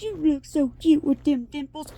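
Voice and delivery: a hint of a charming man teasing; husband's friend. Husband's friend teasing her about her dimples. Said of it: "and he goes".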